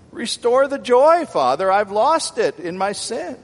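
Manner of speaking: high, loud penitent prayer; preacher's impassioned acted plea; pleading cry. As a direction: cry out to God as a desperate sinner. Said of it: "he came pleading for".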